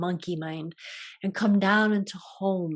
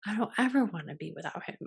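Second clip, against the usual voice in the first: softer, tearful voice that slows and sinks, then rushes; retold crying; 4 dB quieter than usual. Recalling crying over losing her partner someday, soft and teary. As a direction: let it catch and fade the way crying does. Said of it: "he felt so bad for making me cry".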